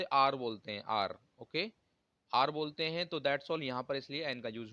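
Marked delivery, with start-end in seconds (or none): 0.0-0.4 "आर" said like "aar", no h sound; hour said as aar. Shown as a demonstration. Teacher shows students "आर" without h. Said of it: "इसको हावर नहीं बोलते". 2.3-2.5 "आर" with the h dropped, just "aar"; hour said as aar. Shown as a demonstration. Teacher repeats "आर" for students, no h. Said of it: "इसको हावर नहीं बोलते".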